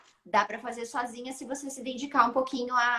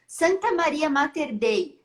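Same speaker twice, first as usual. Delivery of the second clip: each word drawn out slowly, a bit louder; slow, wondering recitation; 4 semitones higher, 4 dB louder, slower than usual. Retold or imitated. Son working out the Latin line aloud, slow and deliberate. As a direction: weigh the words as the meaning dawns.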